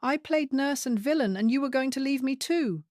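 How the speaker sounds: high, loud shriek. Acted. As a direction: yell it, voice soaring. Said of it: "Sienna shrieked".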